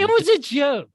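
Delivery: loud high protest. Real, not acted. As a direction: shout it in defense. Defending after being told off.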